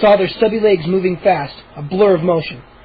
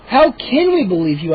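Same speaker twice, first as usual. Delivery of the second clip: demanding; 2 semitones higher than usual. Acted. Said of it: "I demanded".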